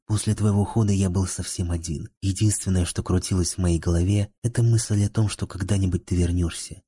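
ordinary delivery

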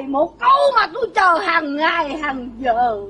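drawn-out stagey delivery, dying down low; melodramatic lament. Acted. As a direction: let each phrase drop further, fading away. Melodramatic speech on long-awaited divorce words.

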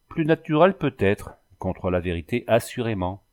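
flat-out certain, no room for doubt; utter certainty. Acted. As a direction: insist she knows the truth. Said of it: "d'un tel ton de certitude".

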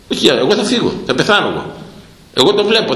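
usual speaking voice

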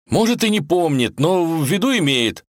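высоко и уверенно; твёрдо стоит на своём. Acted. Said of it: "уверенно сообщил Иван". (Иван уверенно отвечает волку)

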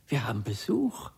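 tender whisper to a sleeper. Acted. Husband whispers to his dead wife. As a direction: whisper as if not to wake her.

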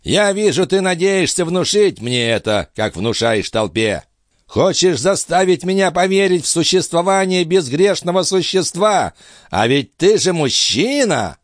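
put-on high, strained old man's voice; old master's voice. A narrator's reading. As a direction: play the frail, urgent old alchemist. Althotas speaks.

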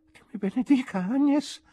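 high, tipsy astonished voice; indistinct drunken amazement. A narrator's reading. Drunk man amazed to see his friend, indistinct. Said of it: "dissi indistintamente".

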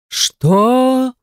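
high, sudden roar of outrage; mild mock roar; god roaring. A narrator's reading. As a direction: bellow it in disbelief. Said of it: "заорал он".

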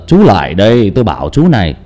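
a mild boom on Chú lại đây; deep gruff old man. Shown as a demonstration. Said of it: "nếu mà đọc một cái giọng ồm ồm á". (thử giọng ông già ồm ồm)

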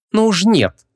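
high, indignant no; snorting refusal. Acted. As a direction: scoff and refuse outright. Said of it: "фыркнула Вон".

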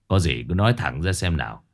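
brisk and low, tell me straight; husband voice. Acted. Old husband urges his wife to speak plainly, low and brisk.

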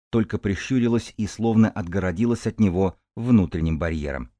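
ordinary delivery

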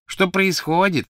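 high, slow mocking echo; mocking imitation. Crabbe mocks Ron's question, slow and high. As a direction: drag out Ron's words to taunt. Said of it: "передразнил Крэбб".

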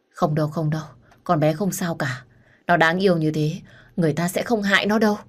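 steady, soothing reassurance; reassuring. Acted. Man comforting his ex-wife about their daughter, reassuring. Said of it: "liên tục vuốt ve lưng của vợ cũ và trấn an".

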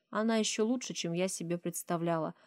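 usual speaking voice

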